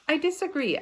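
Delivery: put-on a boy flaring up in an argument; indignant disagreement. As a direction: protest hotly, high and sharp. Peter argues with Sheila.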